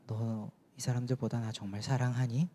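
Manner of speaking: gentle, tender question without scolding; warm loving tone. Retold or imitated. Jesus asking Peter if he loves him, tenderly. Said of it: "사랑 어리고 따뜻한 어조".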